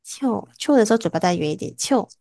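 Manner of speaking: 秋 said with the lips a little rounder; rounded lips. Shown as a demonstration. Teacher correcting a student's vowel, rounded lips on 秋. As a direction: round the mouth slightly on 秋.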